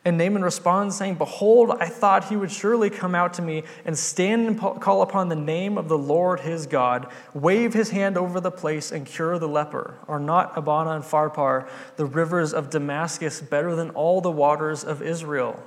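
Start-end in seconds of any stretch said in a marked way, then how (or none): 1.2-1.7 loud, high indignant "Behold"; a proud man's outraged cry of "Behold"; angry Behold. Retold or imitated. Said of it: "He went away in rage". 1.8-15.6 proud, offended complaint, a little raised; retold outrage of an insulted nobleman; indignant rant. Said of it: "He went away in rage".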